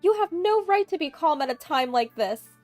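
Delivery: high, very loud screaming rage; yelling loudly. A narrator's reading. Mother-in-law yelling at Amy over the phone, screaming. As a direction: yell each accusation at full force. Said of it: "just yelling loudly while crying".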